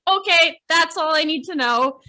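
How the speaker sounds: emphatic mock decision. Decisive retold reply.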